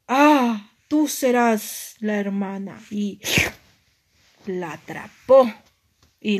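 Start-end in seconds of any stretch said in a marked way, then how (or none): 0.1-2.8 lightly voiced villain, loud opening "ah"; wicked mermaid. Evil mermaid recognises the sister, lightly menacing. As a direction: pounce on the realisation, lightly villainous. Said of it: "muy, pero muy malvada".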